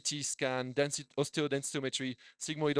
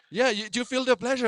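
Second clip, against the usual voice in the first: higher, louder mock German accent, rising at the end; a German doctor asking, with a heavy accent; 9 semitones higher, 6 dB louder than usual. German doctor asking the patient during a colonoscopy, in a German accent. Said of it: "Accents, huh?".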